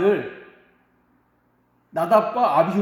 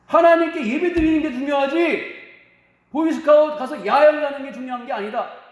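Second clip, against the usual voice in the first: higher, louder retold scolding; parents' stern lecture; 5 semitones higher, 4 dB louder than usual. Parents telling their son worship matters more, stern loud scolding. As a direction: lay down the rule like a strict parent.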